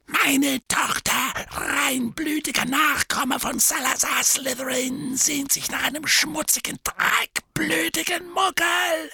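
high, strained scornful voice; contemptuous rant. A narrator's reading. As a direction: spit out every insult with contempt. Gaunt rages at his daughter.

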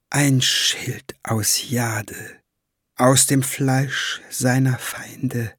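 stroke him with the words, slowly; caressing voice. Acted. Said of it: "Ihre Stimme strich ihm über die Haut".

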